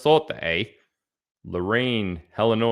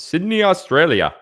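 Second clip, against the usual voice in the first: excited shout-out; 10 semitones higher, 7 dB louder than usual. Real, not acted. Big shout-out.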